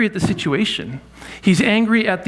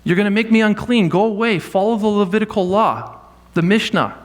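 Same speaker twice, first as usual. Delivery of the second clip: higher-pitched imagined rebuke; hypothetical shout at the leper, voice raised in pitch; mock yell; 5 semitones higher than usual. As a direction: shoo him off like a law-bound rabbi, pitched up. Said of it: "He should have yelled at the leper".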